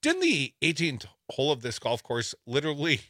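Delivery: holding back laughter; barely keeping a straight face; trying not to laugh. Real, not acted. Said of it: "trying to keep a straight face here".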